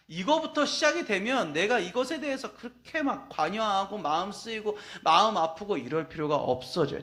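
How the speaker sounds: ordinary talk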